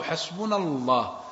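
حسبنا الله drawn out slowly; slow quoted verse. Shown as a demonstration. Sheikh stressing the verse's wording to students, slow. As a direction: stretch حسبنا الله word by word. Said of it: "وقالوا".

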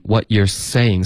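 saying with a clean s, tongue off the teeth; what you're saying, slowly and crisp; teacher models saying; slow clear what you're saying. Shown as a demonstration. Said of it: "思的音呢".

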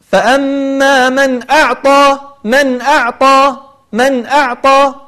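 من أعطى slow, nun then hamza without a break; slow tajwid recitation; clear izhar. Shown as a demonstration. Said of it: "لاحظت كيف أنتقل".

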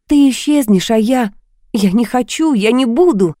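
hysterical rambling. Acted. Woman in hysterics accuses her masked lover of leaving her. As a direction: she unravels, pleading and blaming at once. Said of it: "и бормотала".

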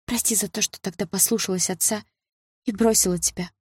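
high, soft, contrite voice; apologetic. A narrator's reading. Sister asks ex-boyfriend forgiveness for leaving, softly apologetic.

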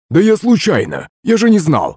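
high-pitched pleading whine; whining excuse. A narrator's reading. Frog excusing himself to the women, whining. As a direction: whine that you are innocent. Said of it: "законючила лягушка".

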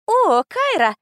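high, loud teasing echo of her greeting; mimicking the heroine; mocking mimic. A narrator's reading. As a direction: parrot her back in a squeaky little-girl voice. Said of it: "передразнила меня мелкая".

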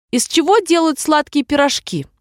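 usual speaking voice

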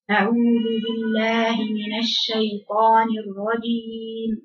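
slow, leaky recitation with air escaping; airy breathy recitation. Shown as a demonstration. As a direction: let the breath spill out on every word. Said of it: "طلعوا الخطأ اللي أنا هقرأه". (تلاوة خاطئة يتسرب فيها الهواء)

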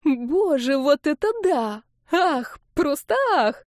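high, slow gasping rapture; a mother swooning over her daughter's video; gushing delight. Acted.

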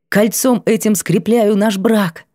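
slow, measured pronouncement; exhaled vow. A narrator's reading. Bride and groom seal their marriage, measured vow. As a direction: seal it word by word. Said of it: "одновременно выдохнули".

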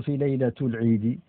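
ليلة pronounced laylatu, with a final u despite the preposition; nominative case ending. Shown as a demonstration. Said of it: "برفع كلمة ليلة على سبيل الحكاية". (نطق ليلة مرفوعة بضمة على التاء: ليلةُ)

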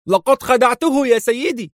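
proud of fooling him; enthusiastic. A narrator's reading. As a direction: henchman excitedly reporting to his boss. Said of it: "يقول بحماس".

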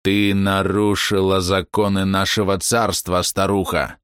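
slow, chittering monster voice; chirring insect voice. Acted. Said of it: "Стрекочущий голос".

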